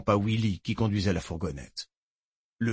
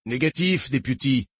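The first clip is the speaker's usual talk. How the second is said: curt, clipped refusal; harsh barking commands; 2 semitones higher than usual. Acted. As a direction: snap the order shut. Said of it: "ordonna sèchement Haynes".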